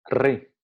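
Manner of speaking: Re said loud, vowel at peak; syllable demo. Shown as a demonstration. Teacher showing the syllable Re peaking on the vowel, loud. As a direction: push the vowel of Re to full volume. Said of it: "Re, ah, lo mismo".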